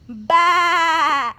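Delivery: loud bleat; sheep baa. Pretend. Child playing sheep, loud baa.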